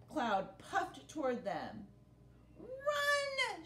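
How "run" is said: high urgent shout. Acted. Captain warns his men of the thud, shouting. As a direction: yell the warning. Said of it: "shouted the captain".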